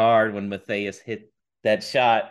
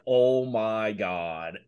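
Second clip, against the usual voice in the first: stunned disbelief; 2 semitones lower, much slower than usual. Retold or imitated. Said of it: "I was just like".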